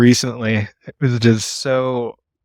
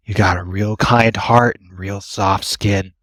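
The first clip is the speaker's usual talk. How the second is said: creepy compliment; slower than usual. Retold or imitated. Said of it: "my spine has, like, shivered".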